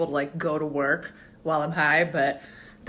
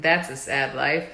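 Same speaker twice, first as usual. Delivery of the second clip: judgmental thought; 4 semitones lower than usual. Retold or imitated. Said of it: "and you think".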